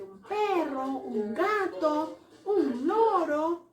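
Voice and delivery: slow listing. Shown as a demonstration. Teacher listing pets slowly.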